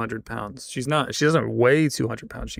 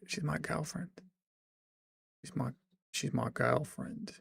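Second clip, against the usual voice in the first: softer retry of the mock British accent on girlfriend; corrected British attempt; 2 semitones higher, 12 dB quieter than usual. Shown as a demonstration. Streamer correcting himself, softer British accent. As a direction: try the British girlfriend again, quieter. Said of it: "No, that's not right".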